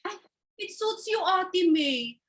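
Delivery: catty tease. Acted. Catty sister teasing.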